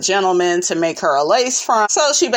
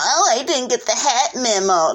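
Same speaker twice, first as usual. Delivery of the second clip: laughing quote; 3 semitones higher than usual. Retold or imitated. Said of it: "she tell me".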